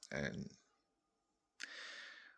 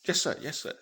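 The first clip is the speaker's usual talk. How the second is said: eager yes sir; 10 semitones higher, 6 dB louder than usual. Acted. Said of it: "And I go".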